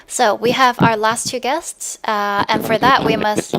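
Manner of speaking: slow, choppy, glitching connection voice; words dragged out like a lagging call; robotic glitchy audio. Real, not acted. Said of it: "Alberto, you sound like a robot".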